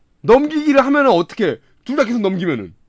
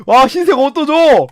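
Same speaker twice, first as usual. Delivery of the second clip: usual speaking voice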